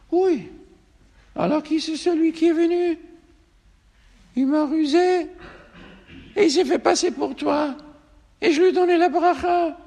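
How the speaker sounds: put-on high, loud, aghast old father; shocked outcry. Blind father realizing his son tricked him, high shocked outcry. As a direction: let it burst out in disbelief. Isaac discovers he was tricked.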